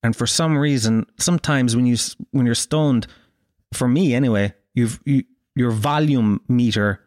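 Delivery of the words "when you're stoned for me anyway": normal talking voice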